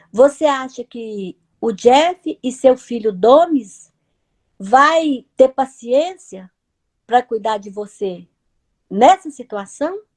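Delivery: gentle yet firm elder. Retold or imitated. Voice from above questioning a frightened woman, gentle but firm. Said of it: "mas que tinha um tom forte".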